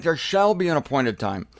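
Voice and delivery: "shall" picked out as the wrong word; contrastive stress on SHALL. Shown as a demonstration. Preacher ruling out a future reading, stress on "shall". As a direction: lean on "shall" to reject it. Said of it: "it's not like".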